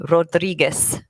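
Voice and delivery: "Rodriguez" with a careful Spanish accent; Spanish-accented "Rodriguez", tentatively done; attempted Spanish accent. Shown as a demonstration. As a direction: try the Spanish accent on "Rodriguez", with a rounded first vowel. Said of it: "I need to do the accent properly".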